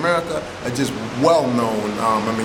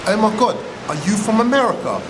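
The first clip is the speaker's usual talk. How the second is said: excited squeal; 9 semitones higher than usual. Retold or imitated. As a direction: gush like a starstruck fan. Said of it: "They're like".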